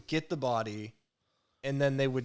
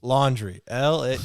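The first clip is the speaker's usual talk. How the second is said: loud mock spelling-bee announcement; playful spelling-bee recital; spelling bee contestant; 7 dB louder, slower than usual. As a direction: belt out the word, then its letters. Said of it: "You sounded like a spelling bee there".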